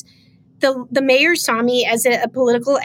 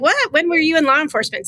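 incredulous what; 4 semitones higher than usual. Retold or imitated. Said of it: "And I'm like".

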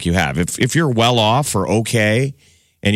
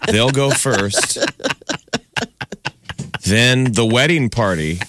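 wedding announcer. Pretend. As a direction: announce it like the reception host.

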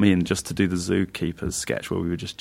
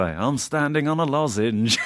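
bad impression of a famous singer; 6 semitones higher, slower than usual. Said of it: "the worst impression of a famous singer".

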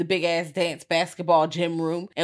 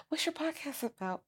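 mock innocent question; 9 semitones higher than usual. Imitating B's question about podcast.

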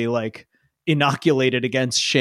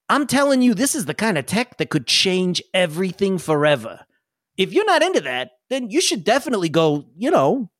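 high, keen salesman of tech; excited NPC pitch; 3 semitones higher than usual. Acted. NPC selling the tech to the crew, lightly high. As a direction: sell the dream. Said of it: "He goes".

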